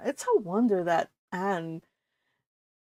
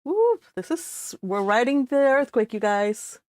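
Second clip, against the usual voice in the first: excited whoop; 3 semitones higher than usual. Real, not acted. Streamer telling viewers they are riding the earthquake, giddy. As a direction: ride the shaking with a thrill.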